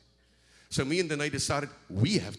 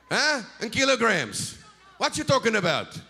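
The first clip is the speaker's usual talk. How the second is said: mock fight shout; 10 semitones higher, 7 dB louder than usual.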